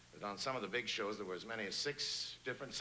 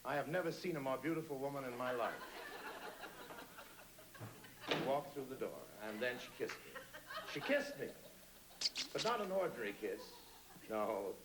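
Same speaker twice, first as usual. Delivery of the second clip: much higher, urgent, breathless private-eye voice; frantic detective narration. Acted. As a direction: race through the action in rising panic. Frantic radio drama climax.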